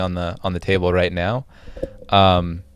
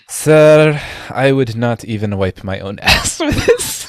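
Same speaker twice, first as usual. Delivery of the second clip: snooty shopkeeper; 3 semitones higher, 6 dB louder than usual. Acted. Shopkeeper refuses the paltry payment.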